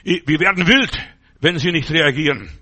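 loud, menacing blackmail voice; mock hacker threat. Hacker threatens the preacher, loud mock menace. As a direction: bark it like a blackmailer. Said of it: "Knülch geschrieben".

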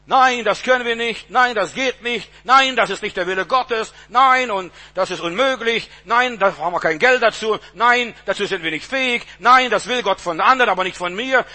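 mock a chorus of naysayers, hammering each no; lightly acted naysayers; clamor of objecting voices. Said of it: "Dieses ganze Stimmgewirr".

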